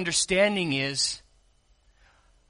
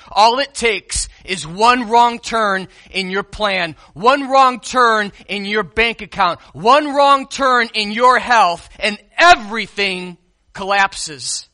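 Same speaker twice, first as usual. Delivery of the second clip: building preaching; 4 dB louder than usual. Real, not acted. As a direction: climb toward a forceful warning. Preacher building a repeated warning.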